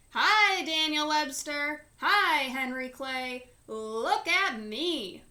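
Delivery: loud excited calls to the horses; hollering. A narrator's reading. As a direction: holler from the hayloft like a thrilled kid. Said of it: "he hollered".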